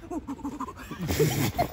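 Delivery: high helpless laugh, words slowed by it; laughing too hard to talk; I just died said through laughter; real laughter. Real, not acted. Bursts out laughing at wife.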